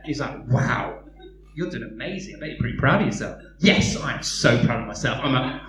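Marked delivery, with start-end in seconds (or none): 0.5-3.4 low, sly flattery; mocking enemy. The enemy flatters the proud believer, low and sly. 3.6-5.2 lightly voiced smug boast. Believer boasts.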